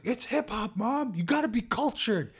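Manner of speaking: put-on high bratty kid voice; kid self. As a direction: play your eight-year-old self, high and cocky. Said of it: "I was like".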